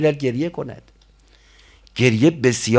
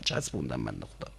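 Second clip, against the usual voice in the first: snide whisper; 7 dB quieter, faster than usual. Retold or imitated. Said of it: "گفتم".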